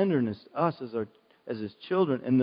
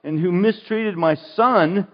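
retold complaint; 4 semitones higher, 7 dB louder than usual. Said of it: "I said".

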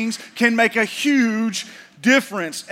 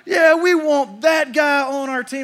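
eager team cheer; 5 semitones higher, 4 dB louder than usual. Retold or imitated. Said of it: "And they're like".

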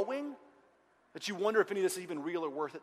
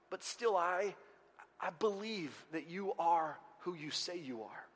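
trusting; 7 dB quieter, slower than usual. Acted. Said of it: "this movement of trust".

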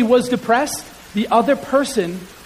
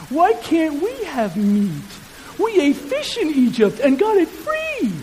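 a touch of whiny complaint, slow and higher; whining Israelites; 6 semitones higher than usual. Acted. Preacher voicing grumbling Israelites, mild whine. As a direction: mildly whine like a grumbling crowd. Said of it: "had the people of Israel whining".

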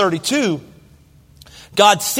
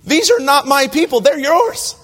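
higher, insistent pleading with God; bold plea; 4 semitones higher than usual. Retold or imitated. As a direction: press God hard to keep his promise. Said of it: "But Moses boldly says to God".

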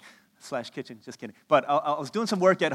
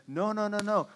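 higher-pitched imitation of an insisting kid; arguing child; 5 semitones higher, 3 dB louder than usual. Son tells sister Mommy chose him, mock insistence. Acting out brother's retort in quarrel.

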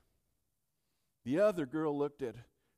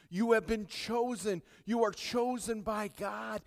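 building louder and higher, driving repetition; full-force preaching; 4 semitones higher, 9 dB louder than usual. Real, not acted. Preacher urging believers that they are called, full-force preaching.

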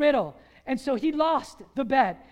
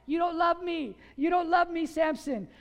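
crying out; 4 semitones higher than usual. Retold or imitated. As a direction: throw it at him like a wounded bride. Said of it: "she cried".

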